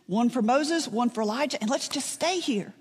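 eager lilt rising at each phrase; blurted suggestion. Retold or imitated. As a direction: toss out a spontaneous idea as impulsive Peter. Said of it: "Peter all of a sudden blurts out".

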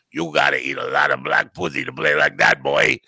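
thick mock German accent. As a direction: growl it in a put-on German accent. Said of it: "He had a thick German accent".

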